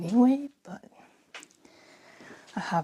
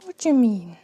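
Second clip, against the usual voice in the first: whispering. Real, not acted. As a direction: whisper so no one hears. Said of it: "I don't know why I'm whispering so much".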